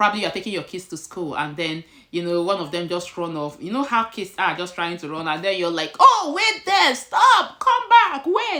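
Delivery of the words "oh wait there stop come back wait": very high, very loud, drawn-out shout. Acting out a parent calling after a child who runs off, shouting. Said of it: "you're shouting".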